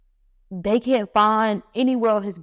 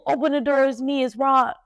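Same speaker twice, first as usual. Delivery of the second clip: raised, higher call through a closed door; 5 semitones higher than usual. Retold or imitated. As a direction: call out to be let in. Man calling through the door.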